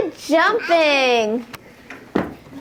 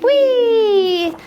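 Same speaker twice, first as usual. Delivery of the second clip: high, louder Whee!; gleeful whee; 9 semitones higher, 4 dB louder than usual. Acted. Teacher reading a frog book to toddlers, gleeful whee. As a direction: let it fly like a ride. Sound word in picture book.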